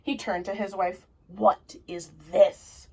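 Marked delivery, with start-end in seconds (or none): 1.3-2.9 a hint of a gruff giant, longing; lightly voiced giant. Mister Giant longing for French fries, lightly voiced giant. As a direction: sigh it out as the giant.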